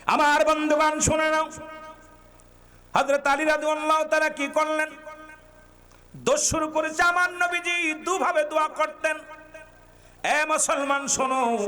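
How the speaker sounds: high, intoned address to the congregation; preacher's call. Real, not acted. Preacher calling friends to listen, high and fervent. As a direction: call out each phrase on a held high note.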